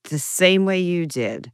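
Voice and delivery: slow, snarky comeback. Retold or imitated. Retelling a reply to people asking how she became Jewish, snarky. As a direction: say it slowly with pointed snark. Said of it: "I've been as snarky".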